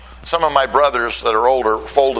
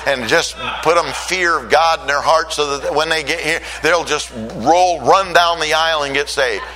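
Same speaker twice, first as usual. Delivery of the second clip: fervent prayer; 2 semitones higher than usual. Retold or imitated. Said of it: "I was saying".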